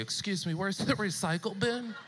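lightly voiced eager Californian asking for recycling; a hint of a polite green tourist; mock Californian voice. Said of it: "how you could spot a Californian".

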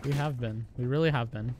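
fake-sounding, slightly subdued agreement; manufactured sincerity. Real, not acted. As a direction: agree softly, as if from a recording. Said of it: "That sounded so manufactured".

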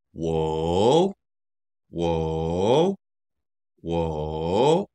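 slow third-tone "wo". Shown as a demonstration. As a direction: draw "wo" down into the dip and back up. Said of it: "I is also third tone".

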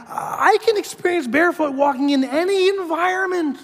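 high, mechanical recitation; parroting the letter. Retold or imitated. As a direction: recite it like a hypnotized robot. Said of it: "I'm like".

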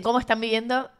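voz congestionada, con mocos; nariz tapada. Real, not acted. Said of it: "estoy llena de mocos". (voz de resfriado)

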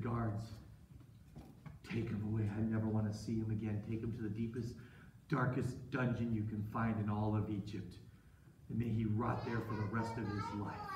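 low, soft, cold command; grim sentence. Acted. Master orders guards to jail Joseph, grim and quiet. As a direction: pass sentence with restrained anger.

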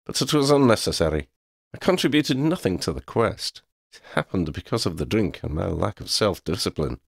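lightly voiced cat, owning up; a touch of regret in the cat's voice; cat Xander, self-reproachful.

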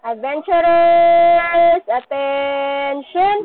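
slow, drawn-out loud call. Real, not acted. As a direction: call them to order again. Repeat call to attention.

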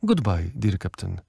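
a touch of kindly grace; old lady graciously bidding the captain goodbye; gracious farewell. A narrator's reading. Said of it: "pożegnała go łaskawym".

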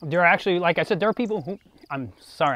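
talking through a mouthful of saliva; salivating and spitting. Real, not acted. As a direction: wet mouth, spitting mid-sentence. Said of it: "I'm spitting".

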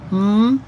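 M as a held hum, "mmm"; initial letter sound. Shown as a demonstration. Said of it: "initial sound or middle sound".

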